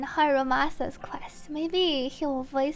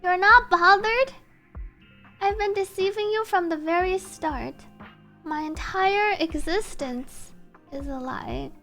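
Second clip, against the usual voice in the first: story narration. Acted. Game character confessing a deception to a friend, measured dramatic reading. Reads game dialogue in translation.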